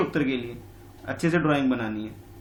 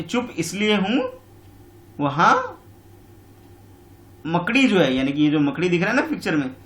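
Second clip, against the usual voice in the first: sly fox; 3 semitones higher than usual. Acted. Fox voiced again.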